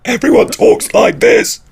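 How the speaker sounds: very high, slow squeak; squeaky voice. Shown as a demonstration. Showing how the other dimension talks, squeaky high voice. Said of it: "what am I gonna say".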